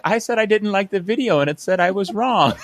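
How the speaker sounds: high-pitched mock student protest; complaining kid. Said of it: "the kids will be like".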